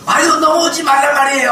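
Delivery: put-on high, loud huffy old woman; scolding grandma. Old woman at the prayer house scolding a visitor, high and loud. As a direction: snap like a cranky grandma guarding her spot.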